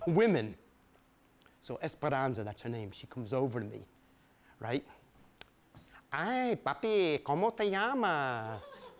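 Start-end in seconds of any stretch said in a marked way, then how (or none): 6.1-8.9 slow, sultry Puerto Rican woman; a lightly voiced sultry woman; Esperanza's voice. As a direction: purr it like a flirting hairdresser.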